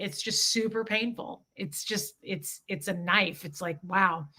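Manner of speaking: quiet hurt. Real, not acted. Painful memory, voice drops.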